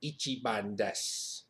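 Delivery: slow, deliberate put-on swagger; drawn-out, matter-of-fact boast; giving it straight. Shown as a demonstration. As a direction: deliver it slowly and squarely. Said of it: "give to 'em straight".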